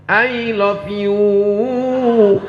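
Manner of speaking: very slow stretched "I love you", laughing; a playful overlong "I love you"; mock drawn-out. Shown as a demonstration. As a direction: drag out "I love you" in jest. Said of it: "Bahasa Inggris tidak ada".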